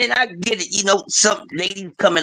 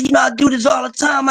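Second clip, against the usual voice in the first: imitating friend; 7 semitones higher than usual. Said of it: "He said".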